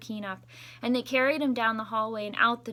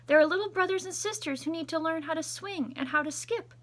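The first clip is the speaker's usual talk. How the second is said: higher, louder big announcement; announcing; 8 semitones higher, 4 dB louder than usual. Acted. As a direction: proclaim it to the whole school. Principal announces to school.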